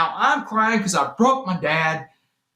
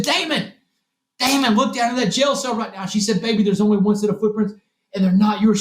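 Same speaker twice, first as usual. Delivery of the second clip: higher, a hint of a pleading mother; urging mother; 4 semitones higher than usual. Mother on the phone urging her son, lightly voiced. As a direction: call him like a worried mom.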